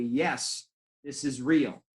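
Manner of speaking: firm, certain yes; emphatic reassurance. Shown as a demonstration. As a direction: press the point home, steady and sure. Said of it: "The answer is emphatically".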